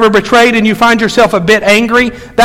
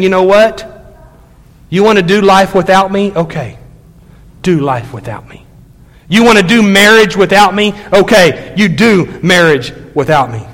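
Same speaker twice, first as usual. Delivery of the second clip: voicing God's hurt. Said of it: "you can almost hear him saying".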